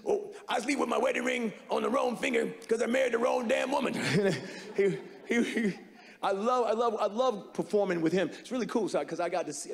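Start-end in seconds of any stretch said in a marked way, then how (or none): 0.0-3.9 Redd Foxx impression. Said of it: "And he would be like".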